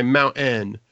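Mount Ann said slow, with no T in mountain; slow Mount Ann, T swallowed; dropped T. Shown as a demonstration. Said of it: "they'll say".

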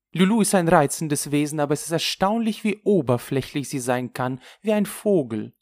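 high, loud, emphatic inner complaint; shocked friend's exasperation. Acted. (empört staunende Freundin)

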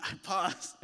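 light chuckle through the words; laughing. Real, not acted. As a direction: laugh at your own joke. Joking about passing tests.

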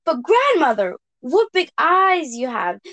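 put-on little girl voice. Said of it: "said Little Red Riding Hood".

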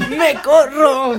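slow, stretched-out exclamation; hammed-up and elongated; drawn-out mock cry. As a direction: draw each syllable out for laughs. Comic echo of the line.

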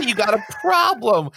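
high Iago line without the growl. Shown as a demonstration. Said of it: "you gotta say".

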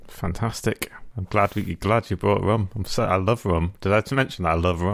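mildly sarcastic, understated enthusiasm; deadpan praise that sounds insincere. Real, not acted. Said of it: "Are you being sarcastic".

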